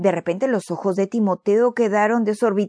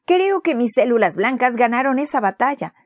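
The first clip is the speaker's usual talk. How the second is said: bright, higher and a bit louder; happy and proud after getting well; cheerful; 5 semitones higher, 3 dB louder than usual. Acted. Boy at breakfast tells his parents he beat the germs, cheerful. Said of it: "dijo él alegremente".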